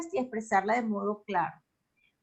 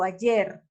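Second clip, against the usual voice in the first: "ayer" with the force on final "yer"; lower-pitched "ayer", stressed on its last syllable; 4 semitones lower than usual. Shown as a demonstration. Teacher gives an example of agudas, "ayer" stressed at the end. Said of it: "la fuerza se le da a la última sílaba".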